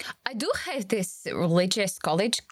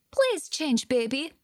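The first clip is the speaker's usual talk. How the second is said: mock pleading wife, higher pitch; imagined wife; 3 semitones higher than usual. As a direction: plead lightly as the fed-up wife. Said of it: "Must have driven his wife crazy".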